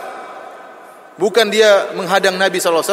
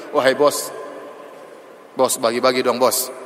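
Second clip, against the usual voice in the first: wheedling beggar; 6 semitones lower, 4 dB quieter, slower than usual. Retold or imitated. Mock wheedling the rich boss.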